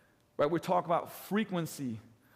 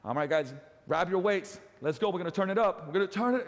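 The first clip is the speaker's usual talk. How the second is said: pumped-up coach; 2 semitones higher than usual. Shown as a demonstration. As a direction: get the class moving again. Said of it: "I bring it back up again".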